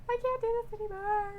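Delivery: high, strained giving-up voice; voicing the wrestler. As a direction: whine it out like the beaten wrestler. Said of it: "she says".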